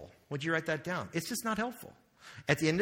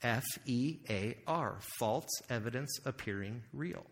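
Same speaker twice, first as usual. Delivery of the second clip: spelled out slowly; 3 semitones lower, 5 dB quieter than usual. Shown as a demonstration. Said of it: "And that's fear".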